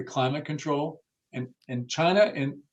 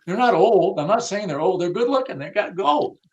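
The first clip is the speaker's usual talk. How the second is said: higher, louder insistent retort; animated retort; 6 semitones higher, 4 dB louder than usual. Retold or imitated. Boss insisting to his staff, raised and emphatic. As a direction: push back hard, voice up high. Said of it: "You go".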